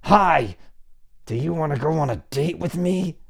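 imitating someone scared asking for a date; mock nervous asker. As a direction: blurt the question like a wound-up spring.

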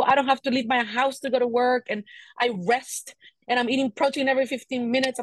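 usual speaking voice

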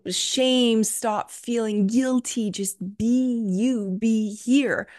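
slow, deliberate, gentle guidance; unhurried soothing advice; slow calm counsel. Retold or imitated. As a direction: lay each phrase down slowly like a healer. Healer's slow calm instruction.

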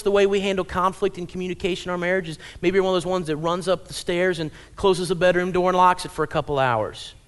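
ordinary talk, nothing marked

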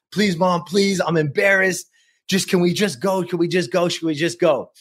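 lightly acted, insistent pleading; begging. Embarrassed boy begging mom to drive away, pleading. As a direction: imitate a child begging mom to leave. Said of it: "I'm begging her".

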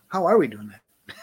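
laughing question. Retold or imitated. Brain voiced, laughing.

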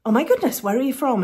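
a touch of gushing surprise, acted out; mock amazement. Girl in the lift asking a stranger, mildly amazed.

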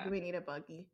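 a natural Southern twang on "Do we need a buggy?"; country accent. Real, not acted. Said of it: "Why did I say it like that?".

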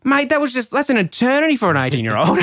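high, excited exclaiming; telling a friend it felt like forever; amused disbelief. Real, not acted. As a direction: marvel at how long that felt. Laughing about the long wait.

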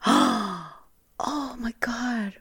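high, very slow whispered relief; imitating the teacher's stunned whispered relief; relieved whisper. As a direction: breathe it out as if finally relieved. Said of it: "she looked at me like".

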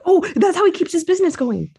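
laughing through the words. Real, not acted. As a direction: say it while laughing. Joking about the dentist.

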